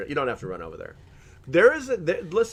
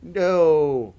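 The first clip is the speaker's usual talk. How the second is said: lightly voiced cat refusing a kiss; raised pitch, drawn-out falling refusal; voicing the cat; 4 semitones higher, 5 dB louder than usual. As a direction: put words in the cat's mouth. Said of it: "she's like".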